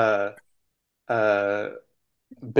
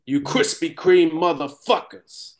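slow, less accent; toned-down accent; 5 semitones higher, slower than usual. Shown as a demonstration. Redoing the line with less accent for friends. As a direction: drop most of the Boston accent, slower. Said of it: "not so much accent on there".

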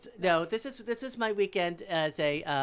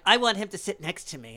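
raised, loud, insistent imitation; demanding old man; 4 semitones higher, 8 dB louder than usual. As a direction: demand your way as a flamboyant host.

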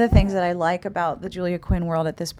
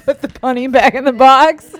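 put-on mangle a Southern accent while laughing; bad Southern accent; 5 semitones higher, 9 dB louder than usual. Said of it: "It was the worst Southern accent".

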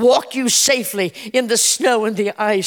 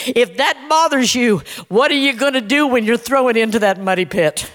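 God speaking. Acted. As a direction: voice God teasing a whining prophet. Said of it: "God asked that question. He said".

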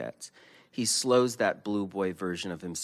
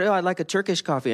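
retold order; 12 semitones higher, 6 dB louder, faster than usual. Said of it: "I said".

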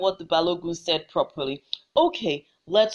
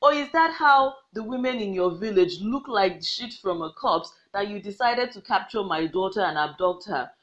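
mocking. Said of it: "started to mock the Balogun".

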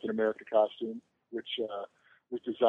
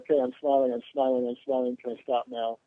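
weary celebrity. Retold or imitated. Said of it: "it's the celebrity smile".

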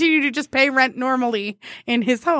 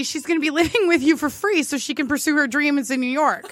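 laughing introduction. Retold or imitated. Coworker introduction, laughing loud.

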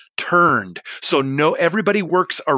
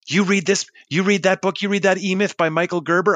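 higher-pitched, mock-amazed questioning; retold eager questioning; 6 semitones higher than usual. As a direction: imitate someone eagerly checking, pitched up. Retold eager questions from impressed man.

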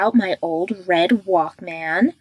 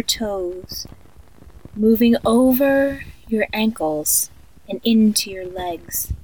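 sleep story narrator. Acted. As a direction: lull a child to sleep, eerily calm. Creepy tape of guided sleep meditation.

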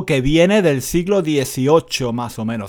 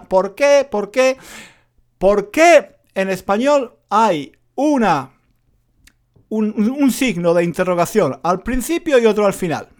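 student asking; 3 semitones higher than usual. Retold or imitated. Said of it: "en español sería".

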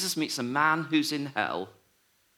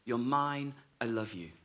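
soft, tender whisper of love; 3 semitones lower, 6 dB quieter than usual. Retold or imitated. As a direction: say it gently, like a lover's promise. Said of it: "the phrase that she heard the voice saying".

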